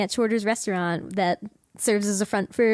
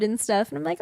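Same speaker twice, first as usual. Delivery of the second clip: usual speaking voice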